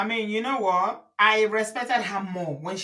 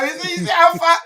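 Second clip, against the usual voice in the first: excited; 8 semitones higher, 4 dB louder than usual. Real, not acted. Laughing, excited protest.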